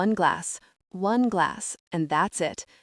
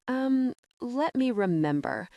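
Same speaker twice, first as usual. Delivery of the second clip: higher, slow, drawn-out stalling; stalling thoughtfully; 6 semitones higher than usual. A narrator's reading. Becky bluffing to Kent about the teapot, stalling slowly and higher. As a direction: play for time, thinking hard. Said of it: "I screw my face up thoughtfully".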